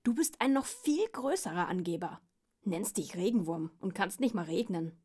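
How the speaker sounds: loud, cross comeback; quarrelling pug, mildly indignant; indignant retort. Acted. Pug returns the insult.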